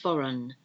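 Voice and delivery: "foreign" said "forun", no G; silent G. Shown as a demonstration. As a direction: leave the G out of "foreign". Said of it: "That's another silent G".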